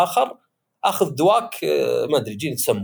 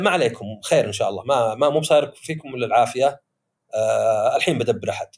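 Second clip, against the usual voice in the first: calm reassuring father; 5 semitones lower than usual. Retold or imitated. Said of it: "يحط مظهر".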